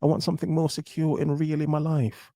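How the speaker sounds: sing-song mimic of a woman settling down; mock woman's voice. Host mimics a woman who has hit the wall, lightly mocking voice. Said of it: "then they have, what, a shift".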